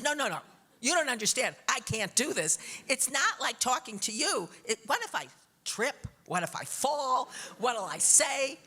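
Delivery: spiral into stage fright; panicky pleading. Retold or imitated. To husband, anxiously listing stage fears.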